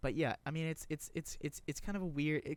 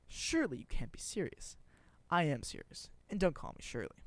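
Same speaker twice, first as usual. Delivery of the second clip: higher, punchy mock-serious delivery; quoted movie exchange; 4 semitones higher, 4 dB louder than usual. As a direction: act out both lines emphatically. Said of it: "I'm gonna quote it from memory".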